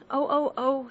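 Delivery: queen shouting over her finger, shrill alarm; shouted cry. A narrator's reading. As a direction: yelp out in alarm. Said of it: "shouted the Queen".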